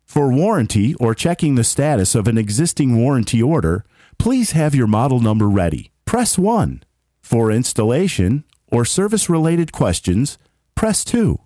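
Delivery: automated phone line announcer; phone menu voice. Shown as a demonstration. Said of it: "I did some voice, uh, prompts for work".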